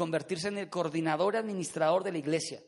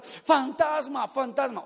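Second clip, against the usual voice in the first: drawn-out, higher cry of alarm, easing off; mock shouting; 4 semitones higher, slower than usual. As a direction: imitate frightened men crying out. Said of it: "comenzaron a gritar". (grito alargado de susto fingido)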